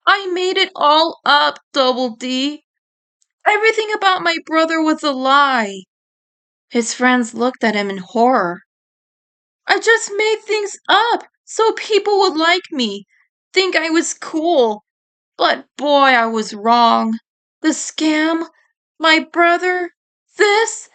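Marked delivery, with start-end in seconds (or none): 0.1-5.8 higher, pained confession to his friends; owning up, voice pitched up and hurting; tearful confession. Acted. 9.7-20.9 higher, pained confession to his friends; owning up, voice pitched up and hurting; tearful confession. Acted. Eddie confesses, tears falling.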